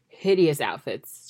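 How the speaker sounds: "hideous" said firmly and slowly, out loud; emphatic disgust. Real, not acted. Disgust at the outfits.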